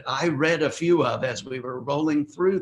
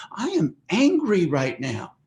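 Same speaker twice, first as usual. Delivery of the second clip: mild, controlled anger with raised pitch; acted parental displeasure, higher than usual; emotional reaction; 5 semitones higher than usual. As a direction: tell off a child firmly, without shouting. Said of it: "An emotional reaction is perfectly okay".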